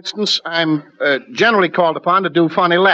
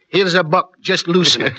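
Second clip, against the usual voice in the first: put-on Scottish accent. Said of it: "I can play the Scotchman".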